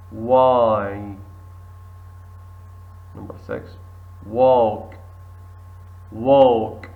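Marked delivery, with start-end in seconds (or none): 4.3-6.9 walk said wok, L silent, loud; model word. Shown as a demonstration. Teacher models walk loudly for the class. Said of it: "L silent".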